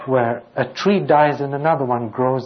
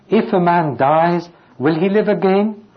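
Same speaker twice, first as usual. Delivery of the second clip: higher, louder searching question with a rising end; pleading question; 4 semitones higher, 3 dB louder than usual. Shown as a demonstration. Preacher reading Job's question to the congregation, raised and rising. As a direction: ask it as Job would, reaching up. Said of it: "He's answering his own question".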